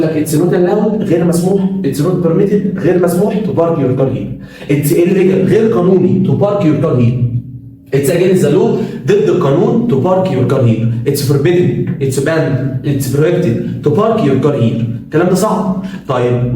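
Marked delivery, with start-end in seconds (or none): 1.8-12.8 slow, spaced model sentences; slow careful modelling. Shown as a demonstration. Teacher modelling sentence options for students, slowly. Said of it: "ممكن أقول لك". 12.8-14.8 drawn-out, very slow; very slow model sentence. Shown as a demonstration. Teacher modelling the final example, very slow. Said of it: "ممكن أقول لك".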